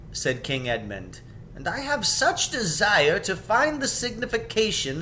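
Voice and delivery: determined, rising with desire; eager King Edmund. Acted.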